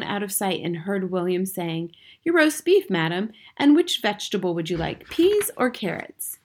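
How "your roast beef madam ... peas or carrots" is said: polite waiter, pitched up; lightly voiced formal waiter.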